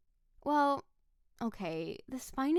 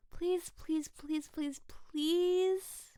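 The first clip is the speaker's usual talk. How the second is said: drawn-out pleading please, a little whiny; playful begging; 5 semitones higher, much slower than usual. Acted. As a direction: beg him sweetly to wake up. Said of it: "my begging is over".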